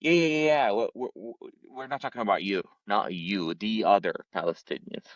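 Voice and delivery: lightly imitating a brushing-off acquaintance; a hint of a patronising friend; mock dismissive reassurance. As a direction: quote the old neighbours, casually reassuring. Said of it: "who said, like".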